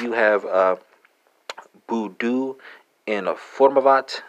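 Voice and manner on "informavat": "informavat" said slowly, a bit higher in Czech; slow Czech demo. Shown as a demonstration. Teacher slowly modelling "informavat" for Czech learners. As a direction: sound out "informavat" carefully. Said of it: "Czech folks".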